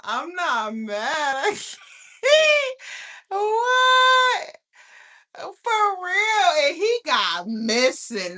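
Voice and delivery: high, loud teary laughter; laughing fit while saying she isn't mad. Real, not acted. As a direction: lose it laughing mid-sentence.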